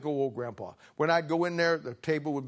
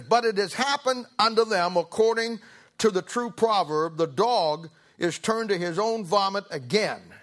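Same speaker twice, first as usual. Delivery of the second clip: scripture reading; 4 semitones higher, 4 dB louder than usual. Acted. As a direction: read the verse with weight.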